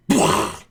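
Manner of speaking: short mouth-made gunshot; imitated gunshot noise. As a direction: burst out a gunshot sound with the mouth. Imitates gunfire in the standoff.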